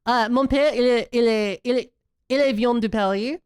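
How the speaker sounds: halting French with an American accent. Shown as a demonstration. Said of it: "how do I say?".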